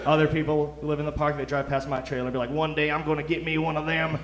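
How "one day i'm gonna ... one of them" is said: lightly put-on Southern twang; Southern accent. Neighbor driving past the fancy trailer, mock Southern accent. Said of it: "I don't know why they were Southern".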